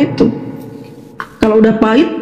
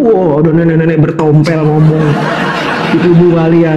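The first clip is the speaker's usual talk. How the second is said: laughing mockery; 7 semitones lower than usual. Real, not acted. Mengejek lawan sambil tertawa.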